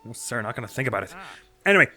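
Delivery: chirpy newsman eager for a scoop; cheerful reporter voice. Acted. Voices Penn dialogue.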